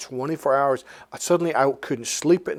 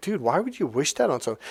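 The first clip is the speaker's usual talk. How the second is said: ordinary talk, nothing marked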